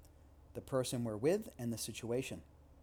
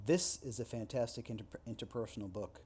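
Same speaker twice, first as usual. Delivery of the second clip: THIS hit hard, the rest falling away; stress on THIS. Shown as a demonstration. Lecturer demoing emphasis to students, stress on This. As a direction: punch the word This. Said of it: "just by shifting the emphasis".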